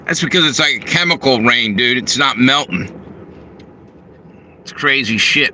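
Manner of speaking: talking while munching pretzels; crunching pretzels. Real, not acted. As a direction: mouth full of pretzels. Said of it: "sorry, I'm eating pretzels".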